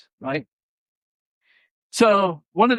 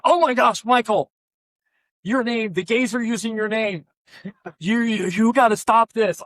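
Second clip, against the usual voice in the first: higher-pitched, flustered imitation of a scandalized caller; mock panicked churchgoer; 5 semitones higher than usual. Pastor mimicking the evangelical caller who phoned him, mock alarmed. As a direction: ham up the church member's alarm, lightly.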